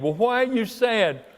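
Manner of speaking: lightly voiced queen pressing her husband; wife asking the pouting king why, mildly mocking; Jezebel prodding. Jezebel questioning Ahab.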